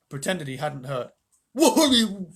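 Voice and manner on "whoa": surprised whoa. Real, not acted. Reader reacts.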